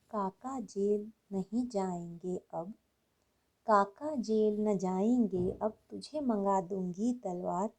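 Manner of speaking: measured, settled recitation as a mother; lightly voiced mother. Mother forbidding her child a visit to lightning's house, lightly voiced motherly reply. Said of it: "आखिरी चार पंक्तियाँ उस बच्चे की माँ बोल रही हैं".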